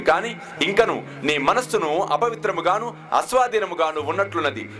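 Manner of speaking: lightly acted stern holy man, declaiming; Baba's stern rebuke. Guru chides a quarrelsome devotee over a book, stern admonishment. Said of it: "ఒక్కసారి గట్టిగా అరిచట".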